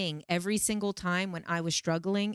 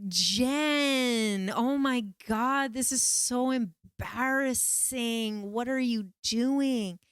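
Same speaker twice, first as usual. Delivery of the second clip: higher, louder, slow embarrassed scolding; a hint of a horrified inner critic; mocking inner ego; 5 semitones higher, 3 dB louder, much slower than usual. Ego scolding herself mid-ceremony, mildly high embarrassed scolding. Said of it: "my ego was like".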